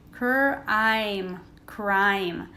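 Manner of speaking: "crime" built up slowly, cr, then i, then crime; sounding out crime. Shown as a demonstration. Teacher sounding out words for pupils in class. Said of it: "making the long I sound".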